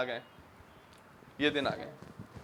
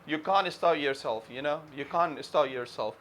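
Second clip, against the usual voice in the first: slow emphasis; 5 semitones lower, 5 dB quieter, slower than usual. Real, not acted. Raving about comedy show.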